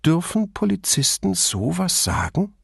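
breezy mock-innocent question; light-hearted. A narrator's reading. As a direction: tease lightly, voice lifted. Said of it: "Sie schlug einen unbeschwerten Tonfall an".

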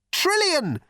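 high-pitched shout of a name. A narrator's reading. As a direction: call out for someone, pitched right up. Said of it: "shouted Arthur again".

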